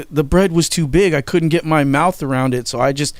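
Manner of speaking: retold kid's tearful complaint; imitated crying. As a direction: lightly mimic an upset little brother pleading. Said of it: "he was just crying".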